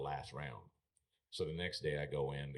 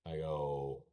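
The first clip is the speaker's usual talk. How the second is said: higher, louder, indignant complaint to the boss; a mock-furious rant, higher and louder; retold angry outburst; 6 semitones higher, 3 dB louder than usual. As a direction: demand answers from the man who fined you. Retold confronting the rodeo boss.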